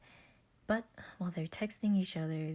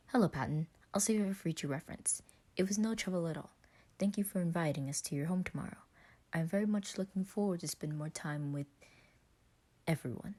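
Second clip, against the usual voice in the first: robotic voice; faster than usual. Acted. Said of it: "Logan's robotic language".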